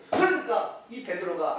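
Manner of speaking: usual speaking voice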